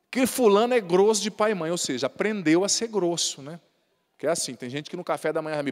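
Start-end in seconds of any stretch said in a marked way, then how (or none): none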